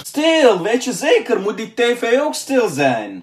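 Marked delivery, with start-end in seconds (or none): 0.0-0.6 shout. Acted. Shouting for silence.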